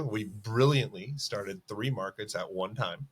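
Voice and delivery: slow, sarcastic stress on "brilliantly"; sarcastic emphasis. Real, not acted. Co-founder mocking his own launch plan, sarcastic emphasis. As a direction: lean on "brilliantly" with mock pride, taking your time. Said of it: "Emphasis on brilliantly".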